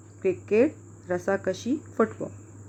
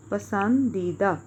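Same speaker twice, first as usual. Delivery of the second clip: slow dictation; much slower than usual. Shown as a demonstration. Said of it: "dictating word after spelling".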